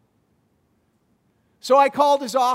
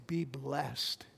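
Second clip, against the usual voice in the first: gentle blessing; 5 semitones lower, slower than usual. Shown as a demonstration. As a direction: speak it like a hand on a shoulder. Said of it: "put a hand on someone and say".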